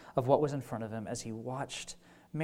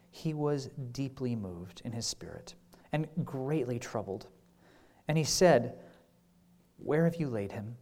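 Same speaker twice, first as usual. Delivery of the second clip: scripture reading; 3 semitones lower than usual. Acted. Reads the scripture passage.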